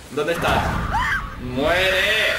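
yelling Muere at the enemy; combat shout. Real, not acted. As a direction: shout to attack. Fighting the monster. (gritando al atacar)

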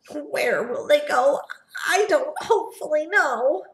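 lightly voiced Lorax with coughs; coughing Lorax. Lorax sending off the Swans, mildly coughing. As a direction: apologise between coughs. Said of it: "said the Lorax".

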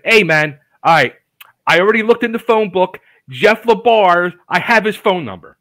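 imitating eager friend. Friend announces he found the rocker's number, retold with loud eagerness. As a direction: punch it out like a pal with big news.

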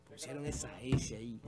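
whispered aside. Real, not acted. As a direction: hush it like a secret. Whispered aside about name.

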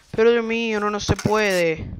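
loud, slowed groan of disbelief; fed-up lament; exasperated. Real, not acted. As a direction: despair at yet another one. Exasperated after addict.

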